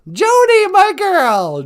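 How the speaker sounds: high, loud call of her name; excited greeting. Real, not acted. Host greets Joni in the chat with a high, loud call. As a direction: call out fondly to a friend.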